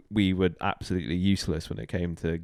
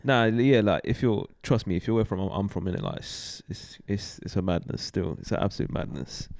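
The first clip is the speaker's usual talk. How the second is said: mock London street accent, dropping to a near whisper; put-on London roadman slang; 3 dB quieter than usual. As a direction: hush it like a faked London roadman sharing a secret. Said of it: "I know you don't talk like this".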